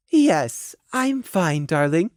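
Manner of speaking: composed lady. Acted. Mare hiding despair from a child, composed and gentle. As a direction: reassure a child politely.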